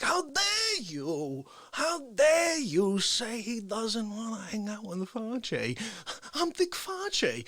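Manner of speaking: offended, high and very drawn-out parody; milk every word with wounded indignation; Dick Fauci. Retold or imitated. Fauci offended at being snubbed, indignant Fauci impression. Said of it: "He got really offended".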